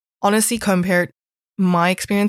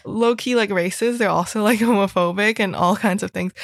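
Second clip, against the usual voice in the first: laughing disbelief; 3 semitones higher than usual. Real, not acted. Laughing while listing school faults.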